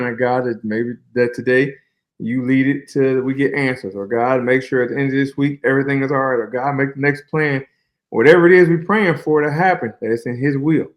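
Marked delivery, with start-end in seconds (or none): 0.2-7.6 retold prayer. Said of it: "I just pray every morning".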